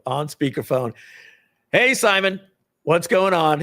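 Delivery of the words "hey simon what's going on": loud, raised-pitch hail; hearty phone greeting. Retold or imitated. Man ringing his friend on speakerphone, loud jaunty greeting. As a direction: call out breezily over speakerphone. Hailing Simon on speakerphone, retold.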